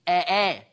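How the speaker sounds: أآ as two separate glottal onsets; two hamzas isolated. Shown as a demonstration. Teacher isolating the original two hamzas, أآ fully sounded. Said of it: "أصل الكلمة دي أصلها".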